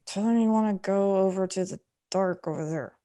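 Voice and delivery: soft voice so only one person hears; stage whisper. Acted. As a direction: murmur it discreetly to a friend. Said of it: "I kinda whisper".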